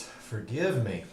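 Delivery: slow words through a yawn. Real, not acted. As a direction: talk while stifling a yawn. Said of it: "Sorry while I yawn in your ears".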